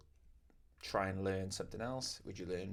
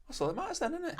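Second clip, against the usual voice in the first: higher, laughing through the line; high laughing reply; 5 dB louder, faster than usual. Retold or imitated. Tattooist answering a happy customer, high and laughing. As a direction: laugh it out brightly. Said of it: "And I go".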